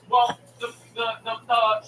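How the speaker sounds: flustered agent tripping on one word; imitated stuttering. Agent thrown off her script, mock stuttering. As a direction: stumble repeatedly, lost for words. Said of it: "she starts stuttering".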